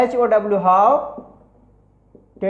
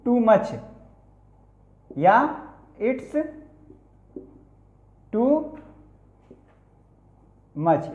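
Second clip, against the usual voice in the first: word by word dictation; much slower than usual. Shown as a demonstration. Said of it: "इसको भी writing में लीजिए".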